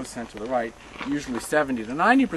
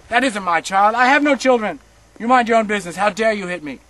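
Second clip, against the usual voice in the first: loud, higher desperate shout; shouting woman; 5 semitones higher, 8 dB louder than usual. Retold or imitated. Young woman shouting back at the guard, loud and frantic. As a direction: fling it back at him in panic. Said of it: "She shouted".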